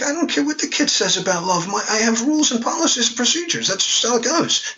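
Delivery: mock stern uncle; incredulous rules talk. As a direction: lay down the rules in disbelief. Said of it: "I was just incredulous".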